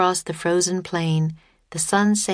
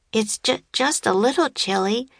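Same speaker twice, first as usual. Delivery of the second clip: shivering stammer; 5 semitones higher than usual. A narrator's reading. Stammering from the cold.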